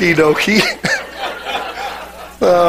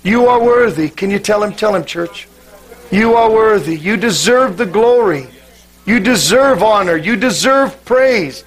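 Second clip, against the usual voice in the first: worship prayer building; 2 semitones higher than usual. Real, not acted.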